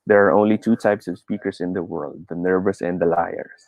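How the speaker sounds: little pitch variation, like reading to oneself; deliberately monotone read-aloud. Shown as a demonstration. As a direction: read it in an even monotone, as if to yourself.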